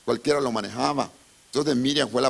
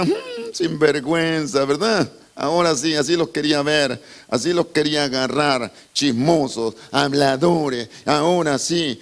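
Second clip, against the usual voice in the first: gloating Miriam; 3 semitones higher, 5 dB louder than usual. Acted. Preacher acting Miriam gloating at her accusers, loud and taunting. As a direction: crow over them like a spiteful sister.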